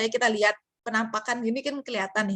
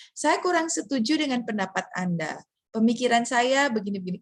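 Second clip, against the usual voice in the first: formal. Retold or imitated. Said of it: "cara bicaranya beda".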